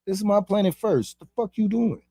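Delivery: lightly voiced outraged Enlil, pitch up; mildly hammed-up angry god voice; Enlil scolding. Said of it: "Enlil hover above this bitch like".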